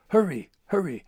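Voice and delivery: high, loud crow voice urging Hurry; cawing crow. Acted. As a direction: caw the words like a bird. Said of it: "companion cawed".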